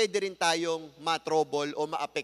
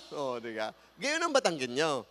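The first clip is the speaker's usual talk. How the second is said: usual speaking voice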